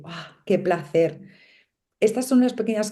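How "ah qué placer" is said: slow savoring sigh. Retold or imitated. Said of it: "saborearlo y decir".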